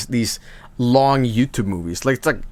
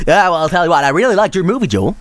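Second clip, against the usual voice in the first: louder, higher mock German accent; German impersonation; 4 semitones higher, 4 dB louder, faster than usual. Joel mimicking Germa telling him he liked it, German accent. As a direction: lay on a thick German accent. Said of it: "It's my, uh, German impersonation".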